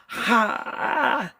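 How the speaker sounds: wheezing laugh like a choking dragon; high, choked gasp of laughter. Real, not acted. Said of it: "You sounded like a dragon at a restaurant choking".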